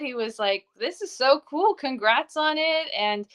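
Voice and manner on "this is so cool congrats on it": higher, imitating a pleased friend; excited congrats. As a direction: retell his delight with lifted pitch. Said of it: "He was excited".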